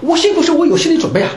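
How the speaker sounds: high, laughing protest; real laugh through the words. Real, not acted. Teacher laughs at class's sympathy.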